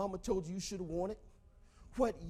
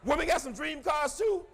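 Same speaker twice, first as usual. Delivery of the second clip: mock surprised; 5 semitones higher, 4 dB louder than usual. Real, not acted. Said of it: "Oh, it's not?".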